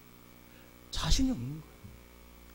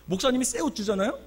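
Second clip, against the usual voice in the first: usual speaking voice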